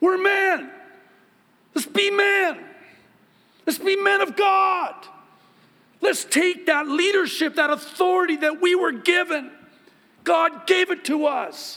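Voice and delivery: shrill, booming, very loud, high preaching yell. A pastor urging the men of the church, yelling. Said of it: "I'm sorry if I'm yelling".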